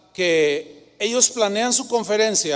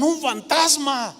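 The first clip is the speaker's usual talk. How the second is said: mild mock yell; 7 semitones higher than usual. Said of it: "y gritaron".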